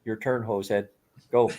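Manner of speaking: hammed-up Canadian hoser accent, heavy on the eh; Bob McKenzie Canadian accent. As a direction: play a jokey Canadian hoser with an eh on every line. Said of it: "a perfectly good Rick Moranis doing Bob McKenzie".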